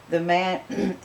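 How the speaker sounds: usual speaking voice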